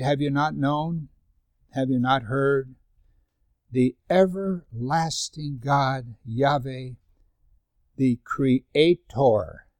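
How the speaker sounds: slow, measured reading of the verse; slow scripture reading. Acted. Pastor reading Isaiah to the congregation, slow and measured. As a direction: read it slowly, weighing each word.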